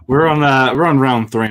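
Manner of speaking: laughing nervously through the words; a jittery chuckle before his turn. Real, not acted. Nervous laughing host announcing his round. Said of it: "I'm getting nervous".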